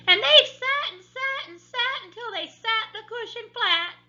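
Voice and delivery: loud, very high shrill squeal; an upset little bear squeaking shrilly; baby bear squeak. A narrator's reading. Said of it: "squeaked the baby bear in his shrill little voice".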